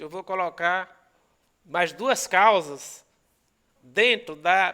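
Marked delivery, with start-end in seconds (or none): 1.6-3.0 mais duas causas said slowly, each word weighed; slow down and lean on duas causas; slow emphasis. Shown as a demonstration. Teacher to students, slowing to stress duas causas.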